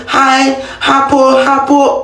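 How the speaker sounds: "hapo" dragged out slowly, each syllable forced; laboring over "hapo, hapo" like a hard medical word; effortful stressing. Shown as a demonstration. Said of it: "I have to be stressing it".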